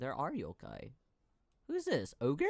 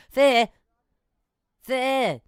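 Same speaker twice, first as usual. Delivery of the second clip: excited; 7 semitones higher, 13 dB louder than usual. Real, not acted. Excited at seeing fish.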